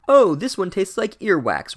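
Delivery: high, loud hammed-up yuck; mock disgust. Headmaster tasting an earwax bean, a loud mock yuck. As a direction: recoil at the taste, overplayed. Dumbledore eats a bad bean.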